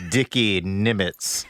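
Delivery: slow, lightly put-on orator's voice; Orson Welles. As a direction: draw out the name in a mock-grand impersonation. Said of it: "In the Orson Welles voice".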